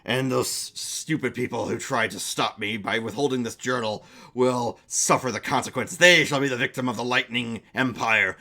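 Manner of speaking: a lightly voiced gloating villain, low and proud; villain monologue. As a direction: savour each threat like a would-be emperor.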